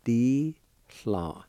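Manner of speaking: di, hla spoken as two separate careful syllables; Cherokee syllables. Shown as a demonstration. Teacher sounding out the second part, di, hla. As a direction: model di, hla clearly. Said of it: "Second part".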